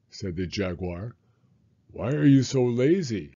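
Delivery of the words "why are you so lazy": questioning animal. Acted. Jaguar asks sloth.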